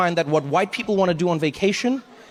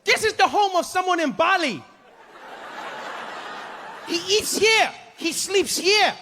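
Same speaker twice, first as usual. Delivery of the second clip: tour guide voice; 13 semitones higher, slower than usual. Retold or imitated. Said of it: "he's like".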